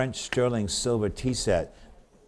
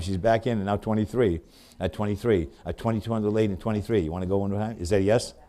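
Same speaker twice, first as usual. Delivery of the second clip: rapid rhythmic run of bid numbers; auctioneer bid calling; faster than usual. Acted. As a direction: keep the bids rolling like an auctioneer.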